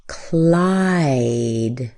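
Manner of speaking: Clyde with the I vowel drawn out; long Clyde. Shown as a demonstration. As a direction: stretch the I in Clyde before the D. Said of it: "how much longer Clyde".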